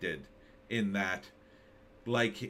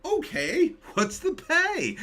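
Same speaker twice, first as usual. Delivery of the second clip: mocking Nicole Kidman. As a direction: play her as an eager shill chasing the money. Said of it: "It was like".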